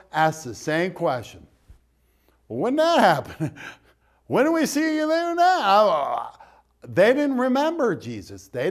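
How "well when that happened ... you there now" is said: puzzled sheep. Acted. Sheep and goats asking puzzled.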